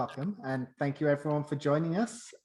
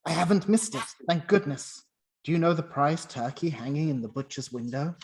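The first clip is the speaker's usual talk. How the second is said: louder, breathless with relief; overjoyed; 4 dB louder than usual. Acted. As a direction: Scrooge thrilled he hasn't missed it. Scrooge overjoyed at window.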